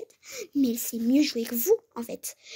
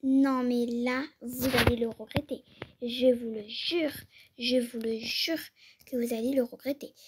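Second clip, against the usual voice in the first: angry mother threat. Acted. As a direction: lay down the law to the coach. Mère menace l'entraîneuse. (mère en colère, menace lente et appuyée)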